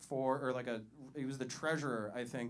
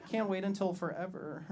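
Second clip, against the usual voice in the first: mock gushing fiancée; 4 semitones higher than usual. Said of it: "that thing white women do".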